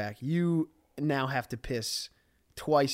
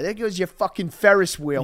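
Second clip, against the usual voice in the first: angry dad; 3 semitones higher, 4 dB louder than usual. Retold or imitated. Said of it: "Angry dad".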